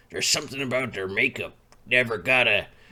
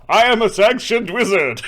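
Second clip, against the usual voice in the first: wizard voice; 7 semitones higher, 6 dB louder than usual. Acted. Player voicing character boast.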